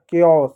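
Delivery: केओस said as "KAY-os", no "ch" sound; correct pronunciation. Shown as a demonstration. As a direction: say केओस with a hard k. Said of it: "जो आप अक्सर गलत बोलते हो". (केओस का सही उच्चारण, 'क' की आवाज़ से)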